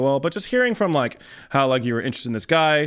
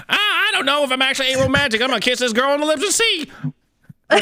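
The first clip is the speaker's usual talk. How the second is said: mocking the friend; 11 semitones higher, faster than usual.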